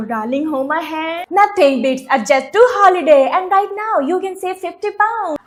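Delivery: very slow mock ad recital; reciting meme ad. Student reciting a meme ad line for the teacher, very slow. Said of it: "इस line को पूरा करो".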